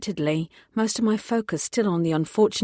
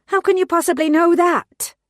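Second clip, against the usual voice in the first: much higher, loud outburst; furious demand; 11 semitones higher, 8 dB louder than usual. Acted. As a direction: demand it in fury.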